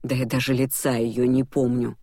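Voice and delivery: ordinary delivery, nothing marked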